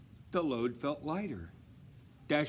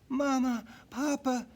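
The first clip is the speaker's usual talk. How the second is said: high, eager call; excited call; 13 semitones higher, 5 dB louder than usual. Acted. Dasher waking her parents, high and excited. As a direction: call to wake them, eager. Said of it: "Dasher whispered".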